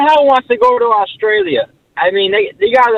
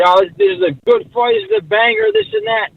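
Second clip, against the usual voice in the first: mock hype quote; 13 semitones higher, faster than usual. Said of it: "They were hyping up that fight".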